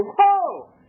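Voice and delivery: mock startled. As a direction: act out being taken aback. Acts his startled reaction at door.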